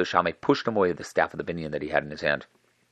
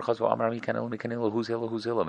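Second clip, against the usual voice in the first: raised, high mock calling; 6 semitones higher than usual. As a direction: call for Hillel up at the door. Man calling for Hillel again.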